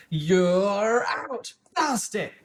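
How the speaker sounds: high, loud out call and curse; shouted call. A narrator's reading. Knight calling the prince out, shouting.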